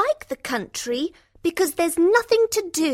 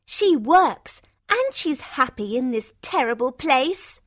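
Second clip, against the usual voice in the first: angry Rosalind; 5 semitones higher, 3 dB louder than usual. A narrator's reading. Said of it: "says Rosalind angrily".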